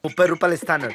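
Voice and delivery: low phone voice. Acted.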